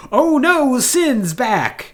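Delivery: high, loud mock alarm; mock panic. Mocking the drama, a hammed-up alarmed cry.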